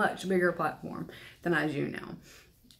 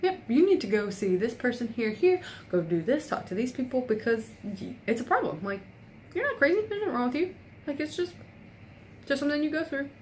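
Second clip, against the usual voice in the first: retold professor, much higher and eager; imitating professor; 7 semitones higher than usual. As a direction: voice her rushing to reassure, pitched way up. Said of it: "she was like".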